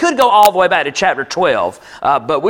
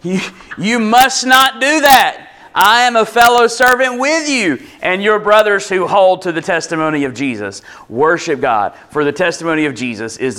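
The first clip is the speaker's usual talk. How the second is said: a lightly acted angel forbidding worship; earnest angel rebuke; 3 semitones higher than usual. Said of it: "that little interpretive inclusion".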